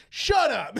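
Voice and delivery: loud incredulous shut up; mock disbelief. Friend reacting again, loud and incredulous. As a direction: blurt it in disbelief. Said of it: "And he's like".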